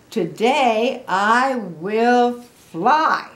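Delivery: grand title announcement. A narrator's reading. Grandma announcing the story title to children, slow and grand.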